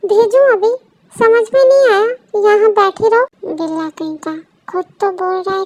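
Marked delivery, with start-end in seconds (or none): 0.1-3.5 louder, sharp commanding tone; angry order. Acted. Husband forbidding his wife to go, loud and angry. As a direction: shut her down with a loud order.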